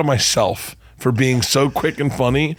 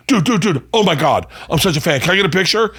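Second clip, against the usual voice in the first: put-on high, squealing starstruck kid; excited teen fan; 8 semitones higher than usual. Teen fan meeting the comic outside his suite, high excited gush. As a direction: gush like a teenage fan spotting his idol. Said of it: "he's like".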